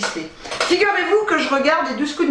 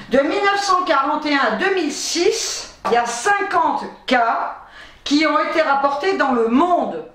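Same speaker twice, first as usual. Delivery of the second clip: raised, measured reading voice; reading aloud; 3 semitones higher than usual. Real, not acted. Vlogger reads copy-pasted research to viewers, reading aloud. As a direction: read out a medical definition.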